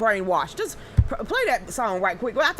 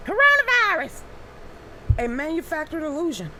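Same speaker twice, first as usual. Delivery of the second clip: her special voice; 5 semitones higher than usual. Shown as a demonstration. Host reading the headline to viewers in her put-on voice. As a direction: announce it like a dramatic movie trailer. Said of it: "in that voice that I do".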